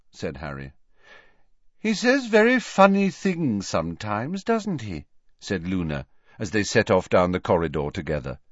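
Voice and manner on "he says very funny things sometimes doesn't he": put-on higher, airy young girl voice, vague and matter-of-fact; Luna's voice. A narrator's reading. Luna telling Harry about crying Hermione, higher airy girl voice. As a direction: float the words like a dreamy schoolgirl.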